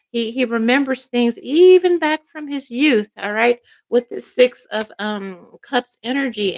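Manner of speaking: emotional voice, breaking now and then; voice cracking. Real, not acted. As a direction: let the voice crack with feeling. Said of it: "and my voice cracked".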